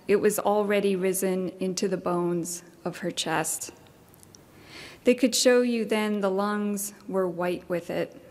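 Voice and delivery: measured poetry reading with deliberate pauses; poem reading. Acted. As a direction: read it as verse, pausing between phrases. Reads a poem aloud.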